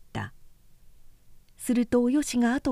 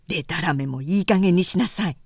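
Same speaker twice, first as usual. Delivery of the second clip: sharp-edged voice; 3 semitones lower than usual. Acted. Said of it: "剣のある声で".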